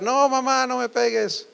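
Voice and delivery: put-on high, pleading child's voice; a scared five-year-old crying out. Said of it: "el niño empieza a gritar". (niño asustado que grita)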